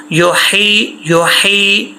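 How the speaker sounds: very slow, drawn out with a full-mouth ta; slow recitation. Shown as a demonstration. Teacher models the heavy ha and ta, slow recitation. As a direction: recite it, stretching every sound. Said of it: "ہا موٹا، ایسا نہیں کرنا".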